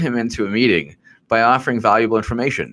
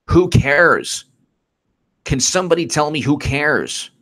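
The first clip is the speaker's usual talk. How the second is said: exasperated rant; 5 semitones higher than usual. Real, not acted. Fed-up host ranting at the audience, raised. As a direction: demand an answer, irritated.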